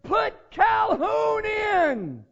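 loud, high, drawn-out yell from the stands; shouting father. Retold or imitated. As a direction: call it slowly across the stadium. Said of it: "He said".

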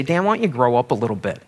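a congregant quickly needling the pastor; quick mock rebuke. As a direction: toss it off fast like a heckler. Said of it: "one of you would say".

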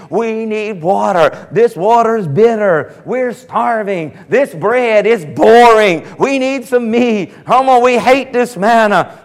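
mock whiny grumbling, slowed down; whining complainers. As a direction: sulk it out like a crowd of complainers. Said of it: "griping and whining".

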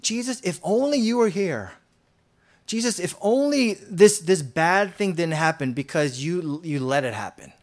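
mild mock reproach to Jesus, pitch lifted; reproachful complaint. Martha grieving, blaming Jesus for her loss, mildly reproachful. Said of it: "Instead of being like Martha and Mary".

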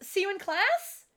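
high, questioning parting line; lifted, tentative teen question; vaguely goth girl. Retold or imitated. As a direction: imitate a girl's unsure goodbye. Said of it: "Vaguely Goth goes".

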